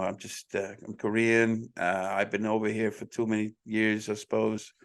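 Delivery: low, level Korean-American accent; American-tinged take on a Korean accent; subdued Korean accent, speaking perfect English. Shown as a demonstration. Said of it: "I'm gonna do a Korean accent right now".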